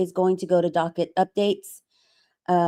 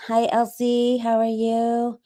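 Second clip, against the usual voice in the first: vampire voice; 3 semitones higher, slower than usual. Pretend. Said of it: "my best vampire voice".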